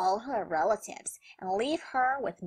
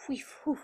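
imitating panting; 5 semitones higher, 7 dB quieter than usual. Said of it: "Look at Gazelle Man out of breath".

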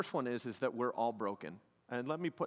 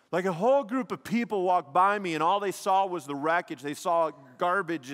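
louder, higher impassioned preaching; full-force preaching; 6 semitones higher, 7 dB louder than usual. Acted. Pastor urging the congregation to tell their story, loud and impassioned. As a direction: preach it out with fire.

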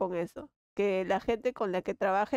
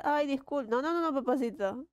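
mock sweet pleading; 4 semitones higher than usual. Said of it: "no soy de hablar".

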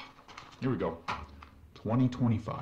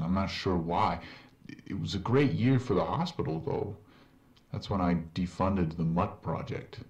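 game character. Acted. In-game doctor voice.

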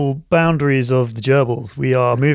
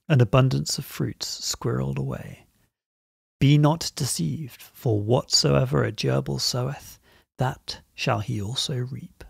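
solemn reading. Acted. Reads a poetic entry aloud.

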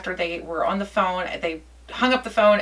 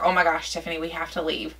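ordinary delivery

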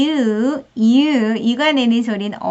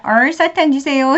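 louder classroom call; kids calling out; 2 semitones higher, 6 dB louder than usual. Retold or imitated. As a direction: call it out like a child. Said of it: "이렇게 말하기 시킵니다".

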